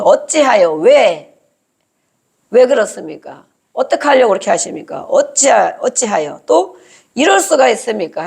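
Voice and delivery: acted protest, questions punched out; arguing with God. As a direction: challenge God in mock-earnest complaint. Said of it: "하나님 앞에 따지는 거죠". (하나님께 따지듯)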